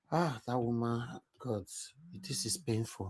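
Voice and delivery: very soft, pained, said quietly to oneself.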